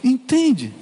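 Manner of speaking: normal talking voice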